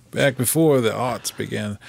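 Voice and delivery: lightly voiced old codger reminiscing; a hint of a creaky grandpa; old man voice. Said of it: "My, my old man voice".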